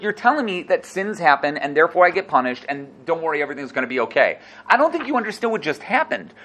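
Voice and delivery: Job throws his friend's words back at him; incredulous. Acted. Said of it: "like, incredulous".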